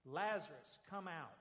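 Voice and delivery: a commanding call into the tomb; shout. Acted. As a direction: call out loudly to the dead man. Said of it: "And then Jesus shouted".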